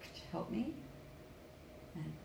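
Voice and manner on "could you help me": opening word shrunk to a quick "k"; reduced CAN. Shown as a demonstration. Coach showing the small form of can, first word reduced. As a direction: swallow the first word, keep "help me" clear. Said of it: "So one is small".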